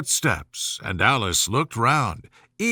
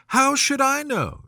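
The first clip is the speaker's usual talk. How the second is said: higher, daring snap back; bold retort; 11 semitones higher than usual. A narrator's reading. Alice answering the Queen back, bold. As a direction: answer back, amazed at your nerve. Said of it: "surprised at her own courage".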